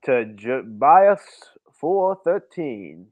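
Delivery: mock solemn preacher reading scripture; hammed-up sermon, slow and grand. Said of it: "the guy who's leading the sermon".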